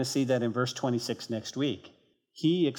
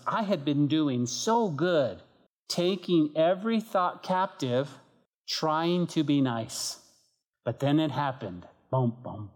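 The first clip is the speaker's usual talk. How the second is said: testimony reading; 2 semitones higher than usual. Acted. Preacher reading a story to the congregation, earnest reading. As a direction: read the testimony to the congregation with feeling.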